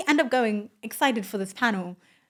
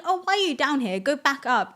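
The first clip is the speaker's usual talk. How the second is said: higher-pitched retold ticking-off; exasperated security guard; 5 semitones higher than usual. Security guard to people waiting for an Uber, exasperated.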